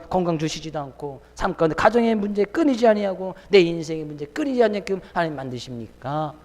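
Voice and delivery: mildly aggrieved plea to God; complaining. Acted. Faithful believer asking God about troubles, mildly complaining. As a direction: act out a believer's grievance, lightly. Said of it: "라고 불평, 불만, 시기, 질투하지 말아라".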